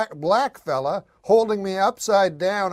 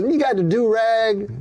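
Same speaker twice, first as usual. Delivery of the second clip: put-on African American accent; 7 semitones higher than usual. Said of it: "Guy goes".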